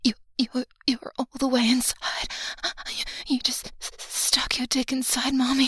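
loud stammering excitement; breathless excitement. Acted. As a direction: gasp it out, stumbling.

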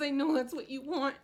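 ordinary talk

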